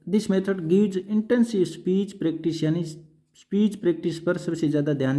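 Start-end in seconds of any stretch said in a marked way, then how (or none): 0.1-2.6 dictating the heading at very slow pace; drawn out word by word for note-taking; teacher reading a heading slowly for notes. Shown as a demonstration.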